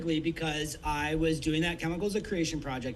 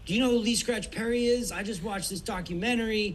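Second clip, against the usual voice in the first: higher, eager retelling of a hyped friend; excited retelling; 5 semitones higher than usual. Retold or imitated. Tour manager retelling an amped-up friend, mildly excited. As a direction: gush about the documentary like the friend did.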